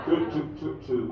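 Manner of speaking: lightly hooted owl calls in a run; barn owl. Acted. Comedian carries on his impression for the crowd, barn owl hoots. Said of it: "My impression of the barn owl".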